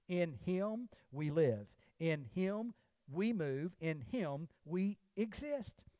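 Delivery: In him we live, In him we move, In him we exist said slowly, each clause set apart; slow stressed repetition. Shown as a demonstration. Pastor savours the verse for the congregation, slow and deliberate. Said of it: "For in him we live".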